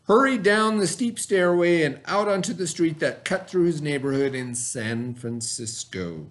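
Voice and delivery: reading a story aloud to the class. A narrator's reading. Teacher reading the story to her students, storybook voice. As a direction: read it like a storybook for kids.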